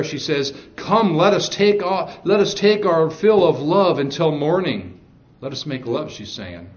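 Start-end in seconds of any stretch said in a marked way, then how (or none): 0.8-6.1 seductive invitation. Retold or imitated. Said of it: "She pumps up the volume. She gets a little heat there".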